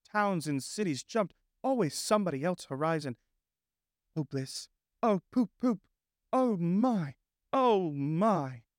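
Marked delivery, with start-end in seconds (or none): 4.2-8.6 dazed Toad voice. Acted. Toad entranced by motor car.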